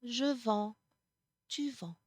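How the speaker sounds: Je vends, tu vends ending on the nasal vowel, no S; silent final S. Shown as a demonstration. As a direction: say vends as vɑ̃ with nothing after. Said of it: "No, no, no".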